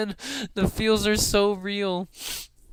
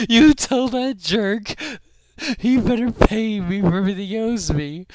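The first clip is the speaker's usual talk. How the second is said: louder, put-on angry tough guy; mock angry thug; 4 semitones higher, 5 dB louder than usual. Retelling the bartender threatening Crow, mock angry. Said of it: "he's like".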